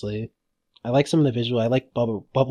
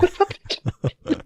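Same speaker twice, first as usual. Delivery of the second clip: mock yelling back; much slower than usual. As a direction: bark it back at the mayor. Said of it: "It's like".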